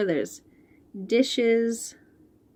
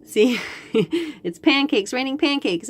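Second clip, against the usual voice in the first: laughing delight; 5 semitones higher than usual. Real, not acted. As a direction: laugh at the funny picture as you point. Delighted by the pancake picture.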